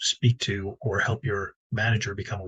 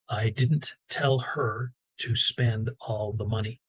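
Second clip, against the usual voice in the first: said slowly, evenly, with the stress on "tell"; slow demo sentence; much slower than usual. Shown as a demonstration. A speaker slowly reading the example sentence to the audience. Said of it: "So the sentence was".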